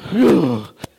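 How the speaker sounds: exaggerated breathy huff in mock upset; hammed-up wordless huff; imitated wife's huff. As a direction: mimic an exasperated sobbing sigh. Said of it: "And she's like".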